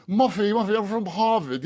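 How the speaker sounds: mock old-money Harvard accent. Host parodies an intellectual, mock Harvard accent. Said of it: "if you sounded like that".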